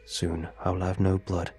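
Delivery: flat monotone computer reading; robot voice. Acted. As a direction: say it like a text-to-speech program. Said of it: "The robotic voice spoke up once more".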